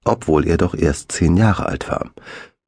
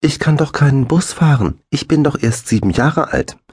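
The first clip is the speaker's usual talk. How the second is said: near tears; 10 semitones higher than usual. A narrator's reading. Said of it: "seine Unterlippe begann zu zittern".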